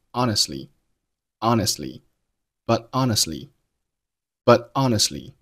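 "honestly" with the t swallowed; slow "honestly" without popping the t; unreleased t in "honestly". Shown as a demonstration. Teacher demonstrating "honestly" with an unreleased t. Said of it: "同样出现了失爆的现象".

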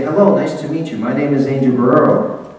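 firm, projected self-introduction; projected self-introduction with a proud, firm name; confident introduction. Shown as a demonstration. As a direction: say your name like you're proud of it. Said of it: "I say".

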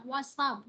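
"what's up" said as "what-sup"; linked sounds. Shown as a demonstration. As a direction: slide the s of "what's" onto "up". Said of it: "Chữ S này nối với chữ up này". (đọc "what's up" nối s vào "up")

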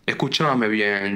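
slow, drawn-out Argentine psychoanalyst voice; grave voice. Acted. Online psychoanalyst addressing a lost viewer, mock-grave voice. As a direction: draw it out with mock gravity. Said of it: "con voz grave".

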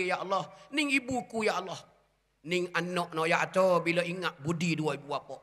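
a lightly voiced son, rising as he remembers being carried; grieving son's prayer. Preacher voices son praying while carrying mother's bier, mild grief. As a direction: pray as the son bearing his mother's coffin.

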